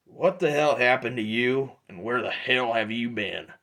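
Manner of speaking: a hint of a big bounty hunter demanding answers; gruff Drudge. GM voices Drudge.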